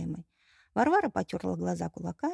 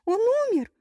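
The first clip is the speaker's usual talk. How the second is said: wailing bride; 6 dB louder than usual. Acted. Bride wails over groom.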